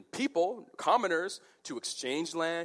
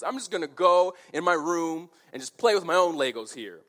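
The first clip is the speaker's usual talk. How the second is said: mock pouting child, a little louder; childish tantrum; 3 semitones higher, 5 dB louder than usual. King retreating to his room, mild mock tantrum. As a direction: sulk off like a thwarted kid. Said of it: "he's just throwing a temper tantrum".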